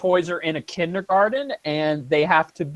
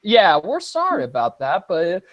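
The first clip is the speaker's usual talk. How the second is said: genial Southern grandpa reassuring; Southern old man voice; 5 semitones higher, faster than usual. Retold or imitated. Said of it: "Southern old man voice".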